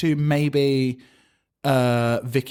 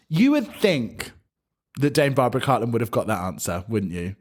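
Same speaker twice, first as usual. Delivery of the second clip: cutting remark; 3 semitones lower than usual. Retold or imitated. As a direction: imitate a withering put-down, drawing out the opening. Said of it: "when Rue is like".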